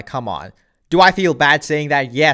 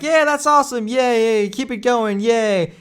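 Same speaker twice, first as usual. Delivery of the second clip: mock cheering a kid; 5 semitones higher, slower than usual. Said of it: "you're like".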